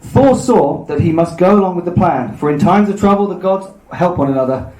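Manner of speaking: measured storybook reading, slightly lifted; story narration. A narrator's reading. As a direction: read the myth out evenly to listeners. Reads the myth aloud.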